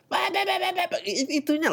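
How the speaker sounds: high flustered babble; sputter, lost for words; flustered stammer. Real, not acted. Flustered at the email writer, sputtering high.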